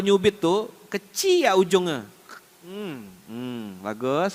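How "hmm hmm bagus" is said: soft, drawn-out mock approval from mother; imitated mother's softly menacing praise; smiling pinching mother. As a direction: hum sweetly through a smile while pinching. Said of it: "bibirnya senyum, tangannya nyubit".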